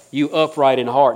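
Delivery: "You upright in heart" with "heart" landed firm; stress on heart. Shown as a demonstration. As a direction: press on "heart".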